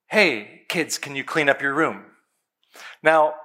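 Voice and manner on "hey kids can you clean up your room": put-on gentle, calm ask to the kids; polite request. Shown as a demonstration. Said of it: "very politely, kindly, calmly".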